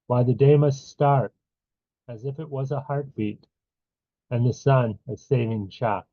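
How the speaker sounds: firm poetry reading, pauses between lines; poem recitation. Acted. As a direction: recite line by line, leaning on the openings. Reads own poem aloud.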